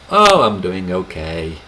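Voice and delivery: a modest answer to how are you; modest reply. Shown as a demonstration. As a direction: play it down calmly. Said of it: "it's more normal to say".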